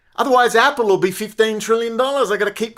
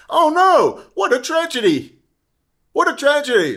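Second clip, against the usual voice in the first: raised, mocking "oh no"; sarcastic mock pity; 5 semitones higher than usual. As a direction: sneer out a fake lament.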